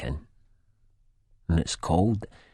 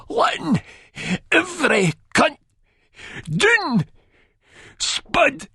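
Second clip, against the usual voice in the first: a pleading, wounded appeal, pitched much higher; soft plea; 4 dB louder, slower than usual. A narrator's reading. Begbie pleading with Spud, gently. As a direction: plead with him. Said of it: "He sort of pleads and goes softly".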